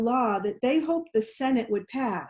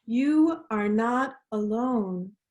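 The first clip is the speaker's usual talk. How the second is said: slow unison affirmation. Shown as a demonstration. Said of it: "Can you all say that with me?".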